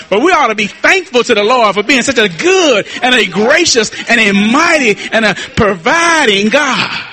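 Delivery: rolling, fervent sermon delivery; full-voiced preaching. Real, not acted. Preacher urging the church to be thankful, full-voiced preaching. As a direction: build a list of blessings like a preacher.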